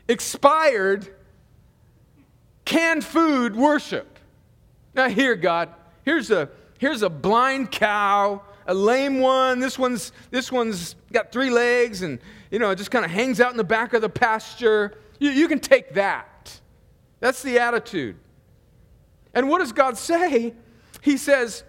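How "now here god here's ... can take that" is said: offhand shrug, pawning off junk; louder, couldn't-care-less handoff; careless offering. Retold or imitated. Worshipper tossing God the worst animal, offhand.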